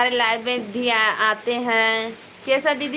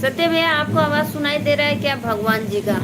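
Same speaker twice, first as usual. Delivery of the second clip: higher and louder call to a viewer; 4 semitones higher, 3 dB louder, faster than usual. Real, not acted. Asking a viewer if he hears the thunder, calling out louder. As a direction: call out to him over the storm.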